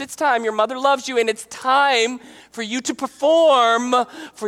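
lightly voiced pleading mom, rambling and insistent; pushy mother. Mother pressing her son to save the wedding, pushy. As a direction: coax your son, then drag out the final demand. Voices Mary pushing Jesus.

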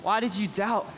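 gentle, measured reproach; understated tender firmness; firm and loving. Acted. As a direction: say it firmly but with love. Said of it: "Jesus says in firmness and love".

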